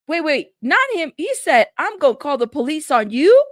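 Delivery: can't believe he said it; excited disbelief. Real, not acted. Excited retelling of Sean's threat.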